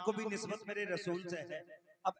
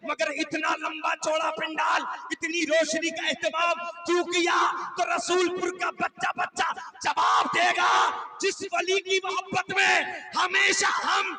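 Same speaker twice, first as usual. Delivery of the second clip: preaching at full force; 10 semitones higher, 11 dB louder than usual. Acted. Preacher roaring devotion to the saint before the village crowd. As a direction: build to a roaring declaration of devotion.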